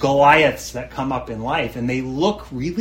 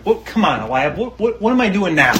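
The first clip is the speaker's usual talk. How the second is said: exasperated little brother; 5 semitones higher, 4 dB louder, faster than usual. Retold or imitated. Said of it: "and I just can hear it".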